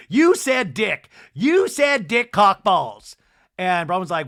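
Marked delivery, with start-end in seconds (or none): 0.1-3.2 mock outrage. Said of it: "Angie just keeps going".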